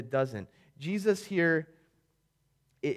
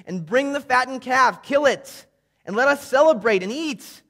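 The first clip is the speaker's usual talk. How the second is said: loud, high, urgent orders; father's commands; 6 semitones higher, 7 dB louder than usual. Acted. Father ordering the slaves to fetch robe and ring, loud and high. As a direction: call out to the servants, overjoyed.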